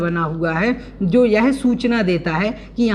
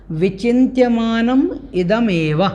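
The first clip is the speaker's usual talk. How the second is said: विचिन्त्यमानम held, then इदम एव run closer together; sandhi split. Shown as a demonstration. Teacher repeating the split word, measured विचिन्त्यमानम इदम एव. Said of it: "इस प्रकार से इसका संधि विच्छेद".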